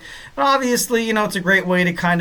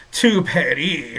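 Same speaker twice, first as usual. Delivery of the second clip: mock French pronunciation of Paris; terrible French accent; much slower than usual. Host jokingly naming the WrestleMania city, in a bad French accent. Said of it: "that was a terrible French accent".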